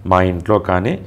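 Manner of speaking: slow despairing message. Retold or imitated. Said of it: "అని పెట్టింది ఆమె".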